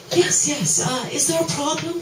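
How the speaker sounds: high, anxious hurried reply; a nervous old man checking himself; asked nervously. A narrator's reading. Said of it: "he asked nervously".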